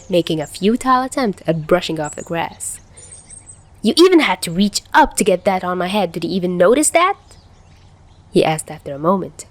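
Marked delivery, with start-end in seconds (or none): 3.8-7.2 cocky. Acted. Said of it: "a cocky smile back on his face".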